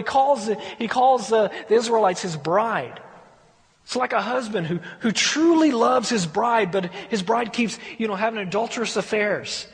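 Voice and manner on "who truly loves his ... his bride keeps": ordinary talk, nothing marked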